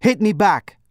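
high-pitched angry order; spat-out demand. A narrator's reading. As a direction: spit the command at him. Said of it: "I spat".

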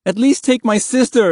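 high, urgent plea; begging. A narrator's reading. Boy begging for his sister, high desperate plea. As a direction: beg desperately, voice pitched right up. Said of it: "Mahmud begged".

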